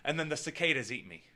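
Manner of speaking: ordinary talk, nothing marked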